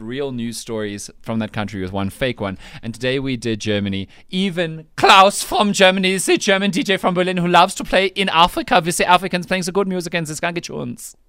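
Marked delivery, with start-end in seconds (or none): 4.3-11.2 hammed-up German accent of a club DJ; bad German accent. Radio host imitating Klaus the Berlin DJ, bad German accent. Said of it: "desperately bad attempts at the accents".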